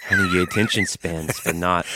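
lightly hammed-up New York "honey"; put-on New York accent. Dog lover needling a co-host, put-on New York accent. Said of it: "Can we do those voices".

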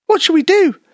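high, squeaky little mouse in a panic; frightened mouse voice. Acted. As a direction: play a tiny scared mouse blurting out news.

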